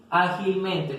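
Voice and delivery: "ágilmente" slowly, with stress on the first A. Shown as a demonstration. Teacher shows where the tilde falls, stressed example word. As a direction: lean on the opening A of "ágilmente". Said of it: "tiene tilde en la A".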